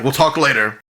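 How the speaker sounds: high, loud brushoff; speaker's aside. Acted. Speaker ushering the rogue back down to the crowd. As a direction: send him off politely. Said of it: "He's like".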